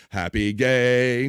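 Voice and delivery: slow, stretched syllables; drawn-out greeting. Retold or imitated. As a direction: stretch out each word of the greeting.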